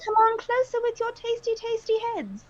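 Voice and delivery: high, fast hungry monster taunt; gleeful undead taunting its prey; taunting zombie. Acted. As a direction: goad them like a hungry zombie.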